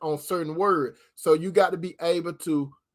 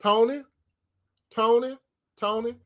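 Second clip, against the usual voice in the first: imitating Cinderella calling; 5 semitones higher than usual. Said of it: "And then she'll say".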